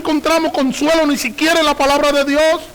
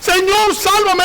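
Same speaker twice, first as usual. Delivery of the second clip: raised, higher pleading cry to the Lord; crying out for help; 6 semitones higher, much slower than usual. Acted. Peter sinking in the waves, crying to the Lord: high pleading cry. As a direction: call out high as if sinking in the water. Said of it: "cuando gritó dijo".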